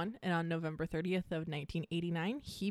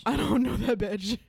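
mock sassy dismissal; 3 semitones higher, 6 dB louder than usual. Repeats friend's line louder.

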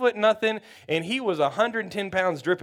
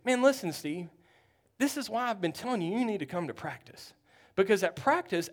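quiet coach lecture; 5 dB quieter than usual. Retold or imitated. Coach lectures Steve quietly on sideline.

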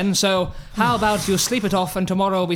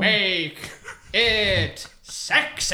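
sultry; much slower than usual. Acted. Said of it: "Don't forget the rule".

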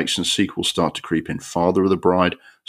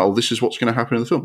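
mock film; 5 semitones higher, faster than usual. Film spelling out plot, mocked.

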